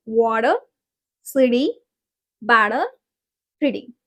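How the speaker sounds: tapped T in "water, city, better, pretty"; American T as soft D. Shown as a demonstration. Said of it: "four words I have practiced here".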